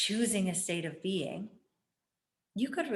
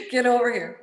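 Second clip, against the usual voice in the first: louder, summoning shout; mock call-out; 5 semitones higher, 8 dB louder than usual. Speaker calling her inner critic out to face her, loud. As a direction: bark it like calling someone over.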